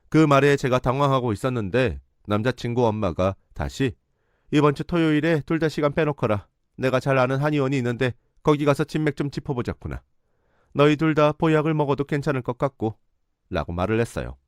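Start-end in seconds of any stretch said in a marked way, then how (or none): 4.5-13.0 put-on higher, imperious older woman; lightly voiced overbearing mother; mother-in-law ordering the couple around, higher and imperious; bossy mother-in-law. Boyfriend's mother giving orders.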